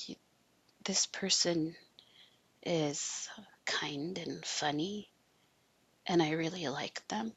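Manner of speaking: hushed inner voice, breathy and unvoiced; whispered thought.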